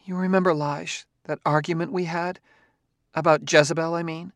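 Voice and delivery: rambling, nervous wife. A narrator's reading. Wife voiced in story.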